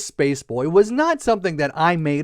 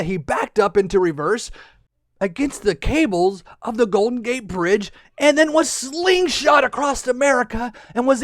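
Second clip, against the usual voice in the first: animated adventure storytelling; lively, dramatic tale-telling; children's story narration; 4 semitones higher than usual. A narrator's reading. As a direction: narrate the escape with big emphasis for kids.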